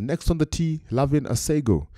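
lightly voiced first-tee announcer; starter's announcement. Starter calls her to the tee, announcing. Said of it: "Starter says".

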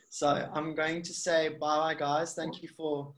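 hoarse, croaky throat. Real, not acted. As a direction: talk through a croaky voice. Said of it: "listening to my croaky voice now".

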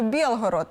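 Білгород with "є" in the first syllable, Бєл-; Russian є vowel. Shown as a demonstration. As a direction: say Білгород as Biel-horod. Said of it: "а в російській є". («є» замість «і»: Бєлгород)

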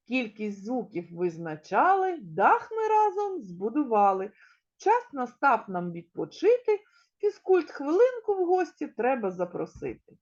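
lively, measured verse for little ones; teacher's sing-song rhyme; children's rhyme recital. Acted. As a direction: recite it with a bouncy beat.

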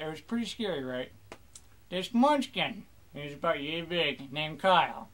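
hammed-up pirate yarn; mock pirate telling a tall tale; pirate storyteller. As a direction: spin the tale like an old salt. Pirate tells a silly story.

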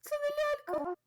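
high, hushed disbelief at the creepy doll; breathless high murmur of horror; stunned dread. Real, not acted. Streamer realizing to the viewers it is no doll, high and hushed. Horror game shock moment.

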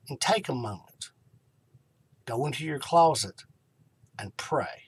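hushed counsel. Real, not acted. Soft counsel to pray.

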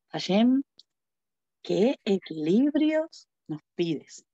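slow, sighing plea to Hashem; a weary sigh sent up to God. Acted. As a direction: let the words out on a tired sigh. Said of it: "vamos a suspirar".

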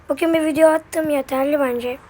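slightly hoarse, dry throat. Real, not acted. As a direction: talk through a scratchy throat. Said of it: "Sesim biraz kısık geliyor olabilir".

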